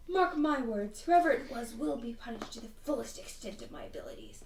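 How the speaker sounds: lightly voiced stern principal; a hint of a threatening headmistress; Alina. Principal vowing to punish the culprit, lightly hammed-up threat. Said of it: "that's a terrible Alina voice".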